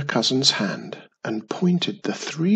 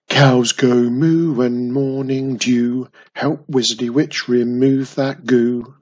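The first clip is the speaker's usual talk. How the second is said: called out; 4 dB louder than usual. Acted. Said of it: "A friendly voice called out".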